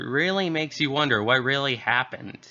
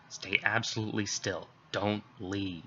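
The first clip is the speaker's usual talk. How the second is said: softer, tense instruction; hushed order; 3 semitones lower, 8 dB quieter than usual. Acted. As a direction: keep your voice down, she's hiding. Officer hushing hiding caller.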